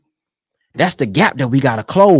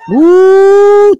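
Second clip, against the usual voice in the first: high delighted ooh; a long soaring ooh of approval; thrilled preacher-fan ooh; excited ooh; 9 dB louder than usual. Real, not acted. Listener reacts to clip.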